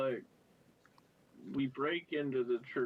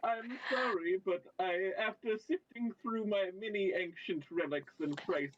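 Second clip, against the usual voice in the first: higher, prim shopkeeper-like voice; fussy character voice; 5 semitones higher than usual. Pretend. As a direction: put on a fussy little persona. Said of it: "All right, I'll stop".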